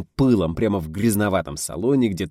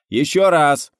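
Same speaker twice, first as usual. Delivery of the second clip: loud, higher order; command; 8 semitones higher, 8 dB louder, slower than usual. A narrator's reading. Director ordering another take, loud command. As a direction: snap out the retake order. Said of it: "скомандовал Гайдай".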